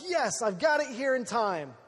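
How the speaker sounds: mildly triumphant re-enacted cheer; retold triumph. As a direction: celebrate like you just made the deadline. Retold triumph at beating deadline.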